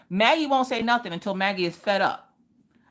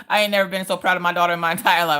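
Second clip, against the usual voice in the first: laughing proud; 4 dB louder, much faster than usual. Real, not acted. Laughing-crying with pride.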